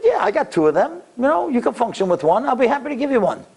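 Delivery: high-pitched, breezy reassurance; nonchalant. Retold or imitated. Kidney donor shrugging off her own offer, nonchalant. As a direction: make a huge favour sound like nothing. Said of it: "so nonchalant about this".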